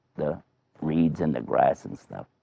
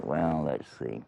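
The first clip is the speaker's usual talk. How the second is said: thinking it over; 3 semitones lower, 4 dB quieter than usual. Acted. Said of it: "he was thinking".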